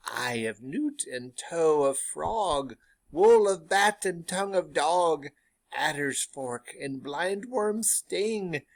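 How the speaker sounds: slow, gloating witch recital of ingredients; second witch's spell. Acted. Teacher reads the second witch's recipe, slow relishing voice. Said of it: "Second witch".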